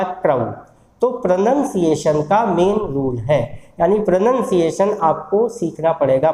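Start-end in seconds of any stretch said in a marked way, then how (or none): 0.0-0.5 क्राउ said carefully as RP crow with a falling tune; teacher models क्राउ the correct way; correct pronunciation demo. Shown as a demonstration. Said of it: "correct pronunciation क्या है".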